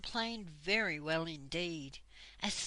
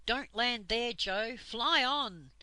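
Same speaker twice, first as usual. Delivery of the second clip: urgent call; 3 semitones higher, 5 dB louder, slower than usual. Acted. Warning Joe away from land.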